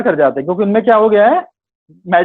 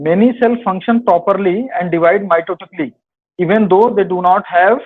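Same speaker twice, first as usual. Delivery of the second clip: reading the question out slowly; dictating a quiz question; much slower than usual. Acted. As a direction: spell out each word for students. Reads quiz question aloud.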